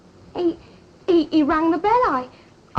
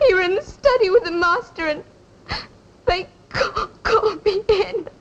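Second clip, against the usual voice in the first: crying. Acted. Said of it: "the mistress will see you've been crying".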